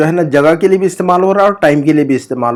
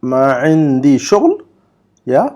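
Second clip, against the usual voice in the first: slow, syllable by syllable Arabic; slow model reading; slower than usual. Shown as a demonstration. Teacher reads the Arabic example slowly for students. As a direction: read it out slowly for students to copy. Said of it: "number گیارہ کا جملہ پڑھیے".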